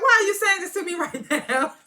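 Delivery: high, loud, fast laughing protest; mock indignation cracking into laughs; laughing outrage. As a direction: squeal it out through laughter. Mocking Elder Mother's outrage, laughing.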